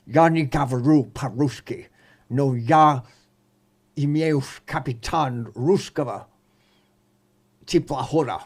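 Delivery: mock bad Russian movie accent; halting, badly faked film Russian. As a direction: imitate an actor's terrible Russian. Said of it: "worst Russian movie accent I have ever heard".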